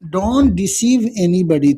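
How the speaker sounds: very slow, word by word for notes; slow dictating teacher; slow dictation. Shown as a demonstration. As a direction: spell it out, then say it slowly. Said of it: "कैसे बोलिएगा".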